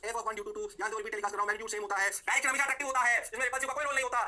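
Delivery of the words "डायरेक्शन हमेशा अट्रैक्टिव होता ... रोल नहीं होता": emphatic rule. Real, not acted. Teacher emphasises key rule.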